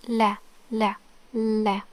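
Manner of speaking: "la" with a light clear L, not English; short "la" on a light Arabic L; non-English L. Shown as a demonstration. Teacher showing a new letter, "la" with non-English L. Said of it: "not like the English L".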